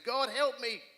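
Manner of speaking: panicked plea to God. Retold or imitated. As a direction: call out for help again, panicking. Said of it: "and I'm panicking".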